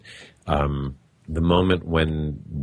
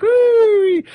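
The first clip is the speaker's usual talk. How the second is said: woo; 9 dB louder than usual. Pretend. Excited roller coaster cry.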